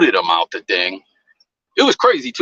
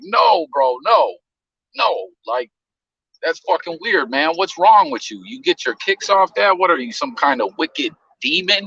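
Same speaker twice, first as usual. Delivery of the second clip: higher, heated retelling of telling him off; indignant scolding; 5 semitones higher than usual. Retold or imitated. Host retelling how he told off the troll, heated. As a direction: lecture a creep, disgusted and worked up.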